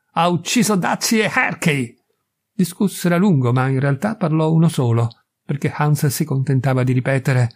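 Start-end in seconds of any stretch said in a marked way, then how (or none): 0.1-2.0 higher, obstinate insistence; stubborn repetition. A narrator's reading. Hans stubbornly repeats his reason to Edith. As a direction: repeat it doggedly, a touch higher. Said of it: "continuò a ripetere con ostinazione".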